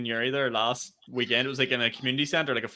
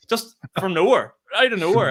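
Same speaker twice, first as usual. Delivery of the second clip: laughing; 7 semitones higher, 6 dB louder than usual. Real, not acted. Laughing at the grannies' outbursts.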